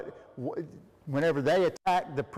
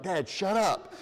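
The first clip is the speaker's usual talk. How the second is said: mock exasperation; 4 semitones higher, slower than usual. Imagined exasperated son cuts in.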